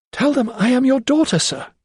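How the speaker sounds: desperate cry. A narrator's reading. Lydia crying out to Sir Montague, desperate. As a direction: cry out the secret. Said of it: "she cried".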